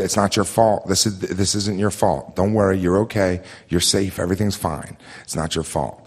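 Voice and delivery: calm her down, line by line; reassuring. Retold or imitated.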